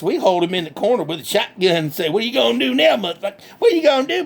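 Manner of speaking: lightly voiced country hick, cheerful and boastful; redneck Bubba. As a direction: play a proud backwoods redneck bragging. Bubba taunts the dentist.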